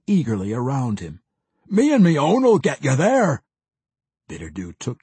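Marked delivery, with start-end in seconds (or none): 1.7-3.4 loud, higher gruff dwarf vow; gruff dwarf promise. A narrator's reading. Pwent eagerly promises the mage an escort, loud and gruff. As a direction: promise it like an eager battle rager.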